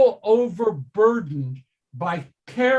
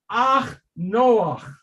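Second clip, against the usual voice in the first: Yiddish accent. Shown as a demonstration. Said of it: "the Yiddish way of using ach".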